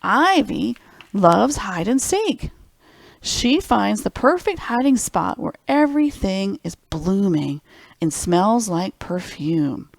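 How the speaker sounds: slow, lilting storybook read; gentle picture-book narration; reading to children. Acted. Reads picture book aloud.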